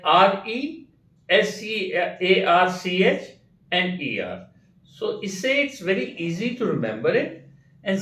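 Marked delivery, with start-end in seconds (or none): 0.0-4.5 R E, S E A R C H, E R spelled letter by letter, slowly. Shown as a demonstration. Teacher slowly spells researcher in chunks. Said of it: "broken up into parts like".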